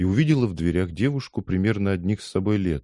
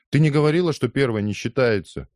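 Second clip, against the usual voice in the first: indignant; 7 semitones higher than usual. Acted. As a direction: protest hotly, much higher. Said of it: "возмутился капитан".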